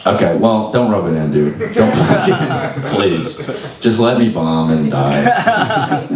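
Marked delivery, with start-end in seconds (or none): 1.7-6.1 laughing despair. Real, not acted. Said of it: "comic despair".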